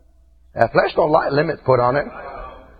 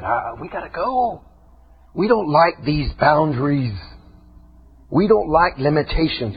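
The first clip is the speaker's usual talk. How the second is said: voiced old nature. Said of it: "That old nature said".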